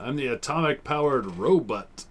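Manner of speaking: toy robot voice. Retold or imitated. A hint of the childhood toy robot announcing itself. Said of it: "I don't know what he said".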